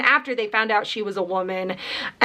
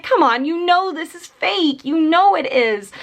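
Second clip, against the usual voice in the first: exasperated; 5 semitones higher than usual. Retold or imitated. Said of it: "I just get so angry with them".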